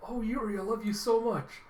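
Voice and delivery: high, sweet gushing voice; hammed-up loving praise; adoring sister. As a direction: coo it as an imagined fond sister. Imagined sister gushing with love.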